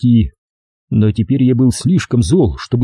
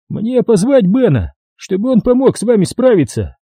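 weary cop; 10 semitones higher than usual. A narrator's reading. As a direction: sigh and threaten calmly. (полицейский устало угрожает рассказчику)

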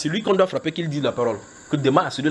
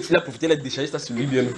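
ordinary delivery

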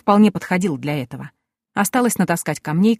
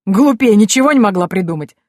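scornful; 3 semitones higher, 6 dB louder than usual. A narrator's reading. Bearded man laughs at her.

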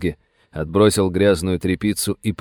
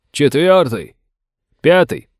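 higher, louder counting off; shouted count; 6 semitones higher, 5 dB louder, slower than usual. Acted. Soldier on the right sounding off, shouting. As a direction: call your number across the road.

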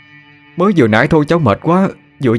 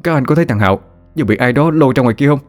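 higher, fast, bewildered loud question; asking loudly; 6 semitones higher, faster than usual. A narrator's reading. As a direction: blurt it out, dazed and just woken. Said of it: "ngơ ngác hỏi lớn".

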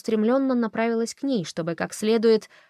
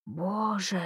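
hushed, awed exclamation; a softly voiced gasp of awe; whispered; 5 dB quieter than usual. A narrator's reading. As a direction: breathe it out in wonder. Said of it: "прошептал он".

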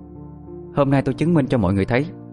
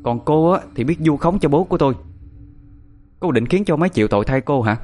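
higher-pitched indignant challenge; annoyed rebuke; 6 semitones higher than usual. A narrator's reading. Grandmother confronting the widow over slandering her father, indignant rebuke. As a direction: press her with indignant, raised-pitch questions. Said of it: "Bà tôi tức giận khó chịu".

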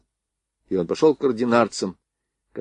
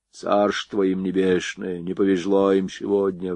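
put-on old man mumble. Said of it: "прошамкал генерал".

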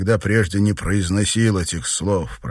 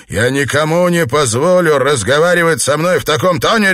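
loud, high angry bark; 9 semitones higher, 8 dB louder than usual. Acted. Husband to wife's lover, loud angry bark. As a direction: bark it at the man. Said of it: "рявкнул Честер".

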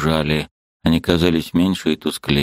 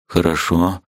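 through gritted teeth; slower than usual. A narrator's reading. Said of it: "проговорил сквозь зубы".

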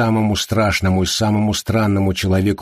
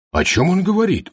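high astonished question; surprised; 10 semitones higher than usual. Acted. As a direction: ask in sudden surprise. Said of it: "удивился Арчер".

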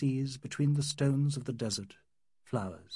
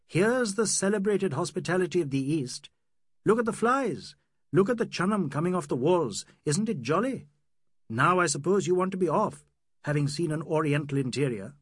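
bitter mockery; 4 semitones higher, 4 dB louder than usual. Aziz mocks his own home.

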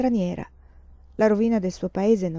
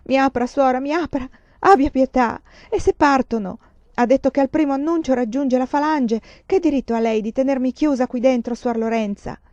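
desperate begging; 4 semitones higher, 4 dB louder than usual. Acted. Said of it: "bussare con i pugni sulla porta".

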